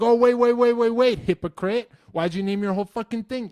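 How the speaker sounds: very high, loud gotcha yell; mock gotcha troll. Mocking a commenter who calls him a hypocrite, very high and loud. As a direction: pounce like a smug commenter. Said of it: "Someone's like".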